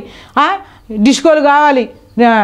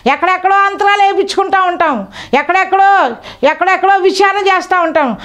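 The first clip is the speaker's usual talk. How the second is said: fervent preaching; 5 semitones higher than usual. Acted. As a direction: preach it up high, drawing out each phrase. Preaching in raised voice.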